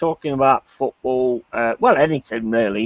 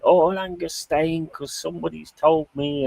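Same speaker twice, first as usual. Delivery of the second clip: mock hype; 5 semitones higher, 3 dB quieter than usual. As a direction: lightly parody a transfer-rumour video. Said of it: "like, do a video going".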